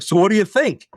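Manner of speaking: upbeat retold question; smiling eagerness. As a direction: ask brightly through a big smile. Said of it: "comes in with his big smile".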